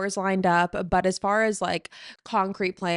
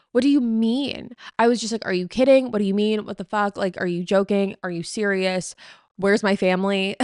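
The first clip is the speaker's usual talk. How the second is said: retold shock; 3 dB louder than usual. Recalling him down on one knee, stunned and shocked. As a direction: replay the disbelief at the proposal. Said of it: "because I was in such shock".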